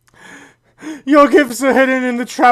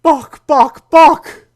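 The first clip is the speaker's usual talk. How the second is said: rising call, louder at the end; 4 semitones higher, 5 dB louder, much slower than usual. Acted. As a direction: call his name, building up. Calling out to brother.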